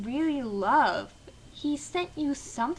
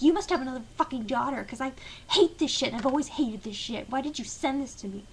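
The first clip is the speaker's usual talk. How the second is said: mock rant; faster than usual. Mocking Tracy's rant.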